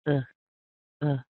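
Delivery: "uh" very short and weak; tiny clipped schwa "uh", each on its own; barely voiced little "uh", said quickly; quick reduced vowel. Shown as a demonstration. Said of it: "We're gonna say it quickly".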